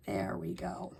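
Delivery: soft whispered there we go; whispered relief. Real, not acted. Crafter fixing the stuck piece for viewers, whispered. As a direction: breathe it out as it finally sticks.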